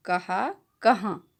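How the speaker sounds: कहा plain, then कहाँ with a nasalized final aa, slow; plain then nasal. Shown as a demonstration. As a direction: set कहा against कहाँ, nasal end on the second. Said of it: "दोनों का उच्चारण अलग है". (कहा सादा, कहाँ का आ नाक से, धीरे)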